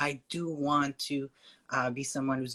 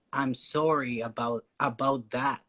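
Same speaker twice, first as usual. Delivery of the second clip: Canadian "sorry about that"; Canadian accent; 2 semitones lower than usual. Shown as a demonstration. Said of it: "in Canada, we say".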